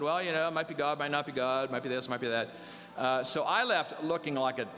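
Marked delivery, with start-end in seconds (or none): 0.0-2.5 mildly noncommittal, running through the options; hemming and hawing. Retold or imitated. Preacher imitating a pastor sparing feelings, hemming and hawing. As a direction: imitate someone dodging a firm answer. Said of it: "he sorta hemmed and hawed around".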